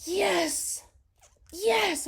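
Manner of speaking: squealed high and loud yes, yes; high-pitched excited yes; thrilled yes. Retold or imitated. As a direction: gush it out like a dream come true. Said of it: "I was like".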